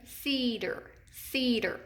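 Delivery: Cedar said carefully, weight on long CE-; stress on first syllable. Shown as a demonstration. Teacher has class feel syllables of Cedar, first one stressed. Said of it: "Say that word with your hand under your chin".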